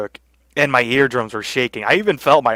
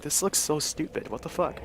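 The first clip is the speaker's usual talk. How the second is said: soft, higher-pitched baffled aside; privately judge the silly spectacle, quietly; retold bewilderment; 3 semitones higher, 13 dB quieter than usual. Retelling first baffled mosh pit reaction.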